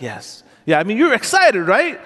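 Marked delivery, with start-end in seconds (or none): 0.0-0.4 a flat, much softer and lower mumbled yes; limp quiet yes. Shown as a demonstration. To the congregation, showing a healed man's dull reply, mumbled. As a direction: answer with no excitement at all, barely audible. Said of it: "or you just".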